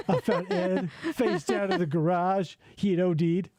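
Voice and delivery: mock tearful confession; lightly hammed-up weepy delivery; Cyrax crying. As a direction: imitate someone badly faking tears. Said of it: "Cyrax crying".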